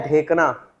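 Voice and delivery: खटमल को बोलते हैं ढेकना said slowly; teacher spelling out the local word slowly; slow dictation. Shown as a demonstration. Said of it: "खटमल को लिखो ढेकना".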